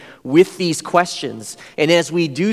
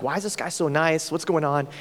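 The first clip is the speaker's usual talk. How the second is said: puzzled thought; 6 dB quieter than usual. Retold or imitated.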